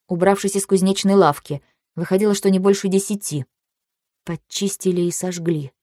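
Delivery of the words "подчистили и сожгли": negligible hushed murmur to oneself; шёпот себе под нос. A narrator's reading. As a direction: say it softly, under your breath. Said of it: "прошептала я себе под нос". (тихо, себе под нос)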